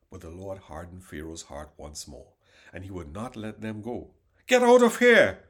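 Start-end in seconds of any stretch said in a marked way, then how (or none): 4.5-5.4 a raging, much higher and louder scream; furious shout. Acted. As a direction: throw him out with full fury. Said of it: "Pharaoh shouted at Moses".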